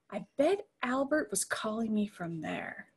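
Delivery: voiceless whisper to herself; whispered aside. Acted. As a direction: confide it under your breath. Private thought aside.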